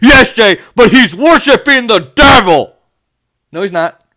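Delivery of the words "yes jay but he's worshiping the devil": laughing, louder, slower mock of dad; imitating dad laughing. Vlogger retelling his dad's objection, laughing. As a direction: chuckle through dad's objection. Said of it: "He's like".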